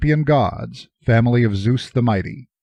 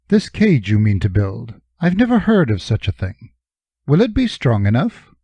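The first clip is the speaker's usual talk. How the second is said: Jory's voice. Acted. Jory doubts the cage.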